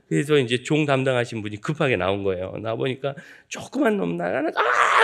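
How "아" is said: very high, loud Tarzan whoop; Tarzan yell. Retold or imitated. Boy ringing the church bell, shrieking high Tarzan yell. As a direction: let out a jungle cry while swinging. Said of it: "이러면서 종을 치고 있으니까".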